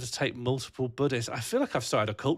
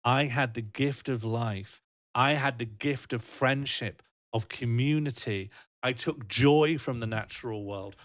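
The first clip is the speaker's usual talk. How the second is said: slow, lower, calm reflection; peaceful acceptance; 3 semitones lower than usual. Pretend. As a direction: let go of it all contentedly and slowly.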